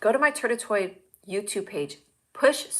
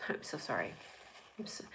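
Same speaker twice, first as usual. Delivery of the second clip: low, very soft apology; hushed mock apology; 8 semitones lower, 18 dB quieter than usual. Apologizing to offended viewers, hushed and low. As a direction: drop right down to apologize.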